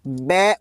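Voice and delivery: बै said alone as the opening b sound; teacher isolating the बै sound; isolating first sound. Shown as a demonstration. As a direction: sound out just बै, separated off. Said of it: "बै की sound निकली".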